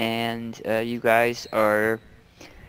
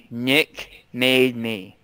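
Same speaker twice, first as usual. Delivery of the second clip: slow, drawn-out repeat of Nick made me; much slower than usual. Shown as a demonstration. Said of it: "I wasn't gonna do it".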